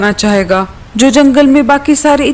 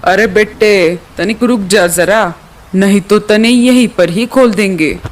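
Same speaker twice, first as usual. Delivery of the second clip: rustic rival hunter bird; 2 semitones lower than usual. Acted. Rival birds claiming the prey from the eagle, rustic. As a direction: lean on the dialect, lightly.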